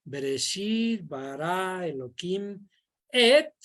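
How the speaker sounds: teacher drilling the Hebrew verse with the class; slow recitation for memorizing. Shown as a demonstration. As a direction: recite the Hebrew slowly so children can repeat it. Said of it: "los niños tienen que irse memorizando".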